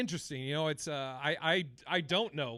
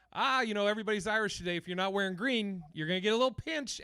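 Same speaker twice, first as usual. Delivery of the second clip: cutesy mock announcement; 4 semitones higher, faster than usual. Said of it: "make it like a cutesy, funny thing".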